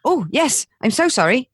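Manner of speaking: high, meek apology; apologetic passengers. Retold or imitated. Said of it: "everyone just went".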